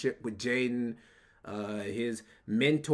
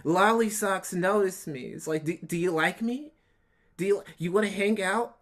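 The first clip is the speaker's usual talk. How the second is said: lightly voiced lovesick teen girl, a bit higher and eager; mock teenage girl; 4 semitones higher than usual. Mocking Nick as a teen girl with a crush, lightly gushing. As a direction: gush like a flustered schoolgirl begging for notice. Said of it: "He's like a teenage girl talking about his crush".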